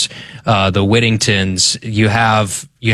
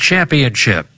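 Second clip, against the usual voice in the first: put-on old-timey radio voice; 3 semitones higher than usual. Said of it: "I'm gonna do an old-timey radio voice".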